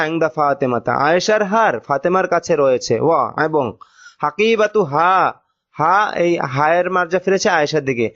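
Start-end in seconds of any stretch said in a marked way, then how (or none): 4.2-5.9 slow dictation. Shown as a demonstration. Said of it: "teacher splits word into parts".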